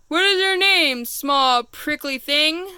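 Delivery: mildly sneering, slow on small prickly thing; a touch of storybook scorn; unkindly. Acted. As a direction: talk down to the little porcupine. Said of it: "asked the rhinoceros unkindly".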